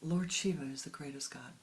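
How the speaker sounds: fuller, firmer second try at the priest's conviction; imitating the priest's fervor. Priest declares Shiva the greatest God, firmer fervent imitation. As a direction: say it with the priest's knowing certainty. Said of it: "Still didn't get it right".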